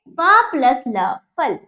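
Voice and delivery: प प्लस ल said slowly and loud; slow spelling out. Shown as a demonstration. Teacher spelling a word out slowly for children. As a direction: spell it out deliberately. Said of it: "ये क्या है".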